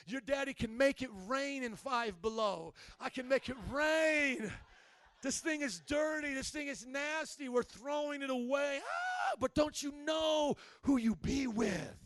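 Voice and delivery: loud, slow, bossy dad proclamation; dad telling the kids off. Retold or imitated. Father telling his kids to let go of their junk, loud bossy proclamation. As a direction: boom it out like a proud father. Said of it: "and I'm just like".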